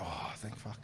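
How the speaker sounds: quiet breathy relief; relieved sigh. Retold or imitated. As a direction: let it out with relief. Relief after scooter passes.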